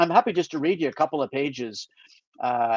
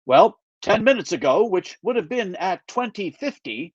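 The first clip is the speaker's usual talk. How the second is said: mock-official report, a bit raised; authoritative; 4 semitones higher than usual. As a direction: play the earnest agent briefing his boss. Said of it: "I began in my most authoritative voice".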